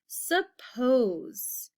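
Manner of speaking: hushed "suppose", breathy and slow; breathy whisper of the new word; whispered teacher read. Shown as a demonstration. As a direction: whisper the word list entry. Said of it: "teacher whispering the word".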